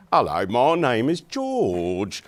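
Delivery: broad, drawn-out Cockney, loud; slow, exaggerated London Cockney impression; Cockney accent. Imitating a Cockney man met at the airport, broad Cockney accent. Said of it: "who was a Cockney, ... it sounded like".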